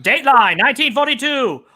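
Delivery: lightly voiced old-timey newsreel announcer; a hint of the fifties commercial voice; 1950s narrator. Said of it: "he does that old timey fifties, like, commercial voice".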